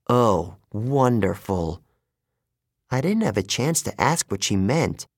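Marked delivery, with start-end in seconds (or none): 0.1-1.8 muttered sarcasm. Acted. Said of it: "Thalia muttered".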